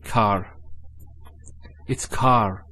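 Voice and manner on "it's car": car said with a light open a; correct car. Shown as a demonstration. Teacher models car for Arabic learners, open a. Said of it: "it's not kar".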